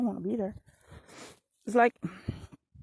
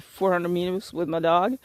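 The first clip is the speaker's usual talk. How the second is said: usual speaking voice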